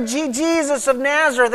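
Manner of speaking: brief stammer on "Je-, Jesus"; stuttering. Acted. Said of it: "I think they stutter and say".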